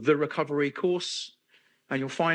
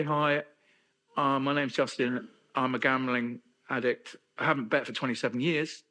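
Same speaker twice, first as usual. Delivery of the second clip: support-group introduction; 2 semitones lower than usual. Pretend.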